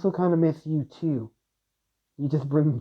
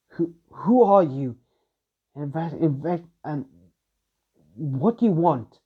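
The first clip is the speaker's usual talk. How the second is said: frightened demand; 2 semitones higher than usual. Acted. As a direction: stammer it out, scared but facing him. Sister confronts the demon.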